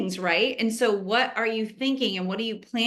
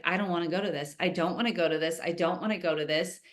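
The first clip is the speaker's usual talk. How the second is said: lower, softer, mock sulky whine; reluctant whine; 3 semitones lower, 4 dB quieter, faster than usual. Someone dreading an event, mock sulky whining. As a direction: drag your feet about going.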